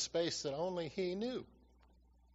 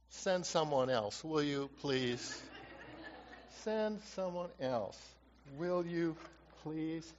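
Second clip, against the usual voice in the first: begging off; slower than usual. Retold or imitated. Acts Moses begging off.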